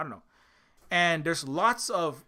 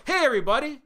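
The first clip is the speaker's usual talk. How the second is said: mock cheerful call-out; 6 semitones higher than usual. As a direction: hail the gang like old friends. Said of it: "you're not gonna go".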